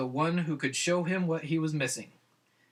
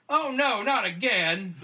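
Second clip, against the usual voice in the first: a high, loud, exasperated outburst; frustrated exclamation; 6 semitones higher, 5 dB louder, slower than usual. A narrator's reading. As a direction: groan it out like it's happened once too often. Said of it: "he exclaimed in frustration".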